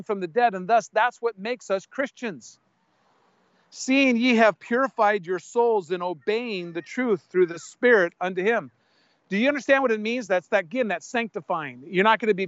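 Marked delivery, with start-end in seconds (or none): 3.7-8.7 scripture reading. Acted. Reads scripture aloud.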